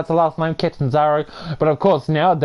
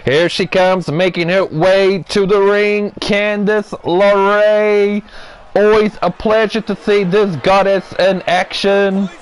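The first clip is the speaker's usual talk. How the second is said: raised, drawn-out name announcement; ring entrance call; 5 semitones higher, slower than usual. Pretend. Commentator welcoming Candice LeRae to the ring, admiring entrance call.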